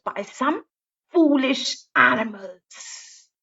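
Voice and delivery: slow, rhythmic storybook verse; drawn-out picture book narration; slow rhyming read-aloud. A narrator's reading. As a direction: savour each rhyming line slowly.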